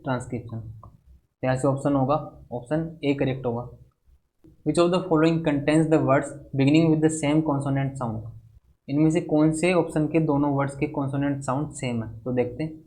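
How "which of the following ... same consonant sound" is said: slow, careful reading of an exam question; slow question dictation. Acted. Teacher dictating a quiz question to students, slow and measured. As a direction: read the English question out very slowly for the class.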